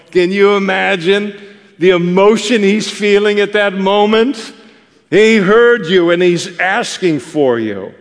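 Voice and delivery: excited wonder. Real, not acted. Preacher thrills at blind man's moment.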